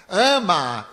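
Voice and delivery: a loud, sharp order; commanding shout. Retold or imitated. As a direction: bark the command. Spirit commands him to love. (grito de ordem)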